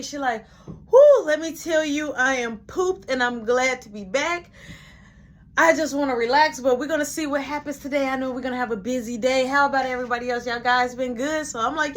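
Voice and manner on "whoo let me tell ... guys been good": big whoop, then higher-pitched chatter; higher voice, relieved and sociable; chatty returning boss. Retold or imitated. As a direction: play the pooped but glad supervisor. Shirley's chatty reply acted.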